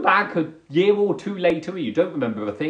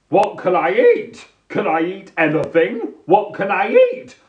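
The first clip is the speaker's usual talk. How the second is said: mild mock panic over a menu; acted overwhelm; 2 semitones higher, 5 dB louder than usual. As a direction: fret as if totally overwhelmed. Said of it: "I get totally overwhelmed".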